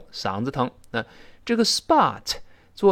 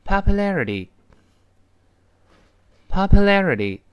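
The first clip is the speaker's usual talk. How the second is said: read a bit faster; 8 semitones higher, 6 dB louder, much slower than usual. Shown as a demonstration. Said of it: "我们再快一点读".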